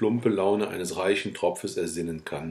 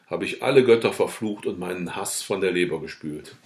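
usual speaking voice

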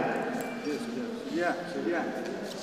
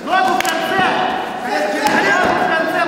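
shouting coach; 4 semitones higher than usual. Real, not acted. Corner coach yelling at his fighter.

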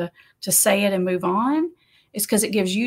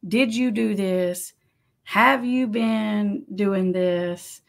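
accusing question; much slower than usual. Shown as a demonstration. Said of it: "I don't want you to ask the question".

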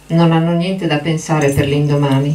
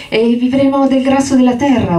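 excited shout; 9 semitones higher than usual. Acted. Lenny bursting in on George's dream, shouting high. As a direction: cry it out, carried away. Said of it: "urlò Lenny".

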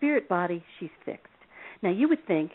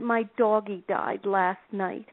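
put-on crying little girl; slower than usual. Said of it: "came into my office crying".

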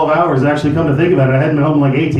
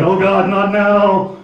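defensive; 5 semitones higher, much slower than usual. Retold or imitated.

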